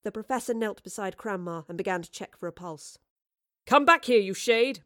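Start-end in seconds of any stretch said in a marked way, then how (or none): 3.6-4.8 loud, high, angry call after a fugitive; crying out. A narrator's reading. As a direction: shout it after someone getting away. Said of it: "Marlowe cried".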